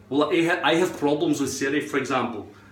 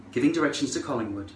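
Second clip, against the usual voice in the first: Siri; 2 semitones lower, 4 dB quieter, faster than usual. Retold or imitated. Voice assistant now obeying, quick and matter-of-fact. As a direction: answer briskly like a phone assistant. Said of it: "then she'll say".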